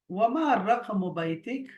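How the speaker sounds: slow model question. Shown as a demonstration. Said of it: "teacher models the Arabic question".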